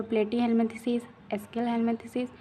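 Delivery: platyhelminthes drawn out syllable by syllable, slowly; slow teacher drill of platyhelminthes; slow drill pronunciation. Shown as a demonstration. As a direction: stretch out platyhelminthes and एस्किलहेल्मिन्थेसिस very slowly for students to copy. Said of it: "तो इसको याद करो".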